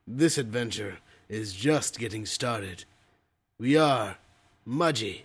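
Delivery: deep, dramatic trailer narration; big epic movie-trailer read. Shown as a demonstration.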